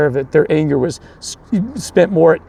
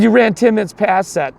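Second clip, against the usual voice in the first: high-pitched, mildly raised mock accusation; imitated yelling coach; 7 semitones higher than usual. Losing coach disputing the game clock, imitated yelling. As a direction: argue like an indignant losing coach. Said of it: "The coach starts yelling at me".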